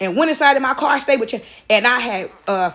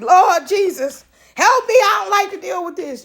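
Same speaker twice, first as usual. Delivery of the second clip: flustered dad praying; 7 semitones higher than usual. Retold or imitated. Dad panicking over his crying daughter, mock pleading. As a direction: imitate dad begging Jesus for help. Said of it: "running through the house like".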